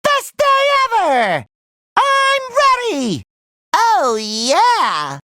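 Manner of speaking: very high, stretched-out cheering; overjoyed cheer. Acted. Hero eager for adventure, high overjoyed cries.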